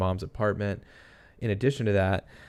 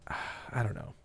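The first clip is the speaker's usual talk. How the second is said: "I don't know" breathed out on a sigh, much softer; sighed whisper; 11 dB quieter, slower than usual. Real, not acted. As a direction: give up on it with a tired sigh. Baffled by the case.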